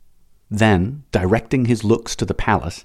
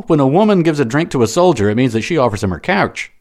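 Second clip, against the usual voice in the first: jovial Gaul; 6 semitones higher, 5 dB louder, faster than usual. Acted. Jovial Gaul explains custom.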